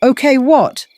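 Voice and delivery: high, loud burst of surprise; startled yelp. A narrator's reading. Bran sees a second John appear, yelping in shock. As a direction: yelp it, pitch leaping up. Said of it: "Bran yelped".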